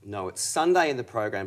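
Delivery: tired, just-woken voice; morning voice. Real, not acted. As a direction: sound a little sleepy and worn. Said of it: "I've got my morning voice on".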